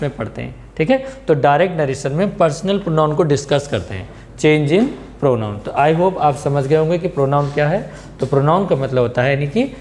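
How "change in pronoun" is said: very slow, drawn-out title read; very slow topic title. Shown as a demonstration. Teacher naming the chapter to students, very slow. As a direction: spell out the topic slowly for the class.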